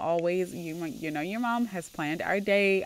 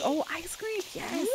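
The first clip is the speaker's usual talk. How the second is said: put-on high-pitched delighted kid squeal of words; thrilled child; 10 semitones higher than usual. Child offered ice cream by parent, thrilled. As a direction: play a kid thrilled by a treat.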